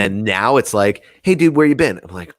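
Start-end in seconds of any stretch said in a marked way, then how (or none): 1.2-2.0 much higher, louder happy hello; excited greeting. Retold or imitated. Beings welcoming the speaker back, excitedly greeting him. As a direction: greet an old friend with delight.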